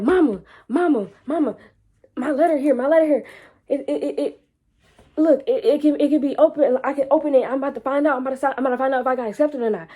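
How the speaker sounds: high, eager, tumbling words; excited calling mama. Retold or imitated. To mom, bursting to share the letter, excited. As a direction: rush to tell mama the news. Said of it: "I'm so excited".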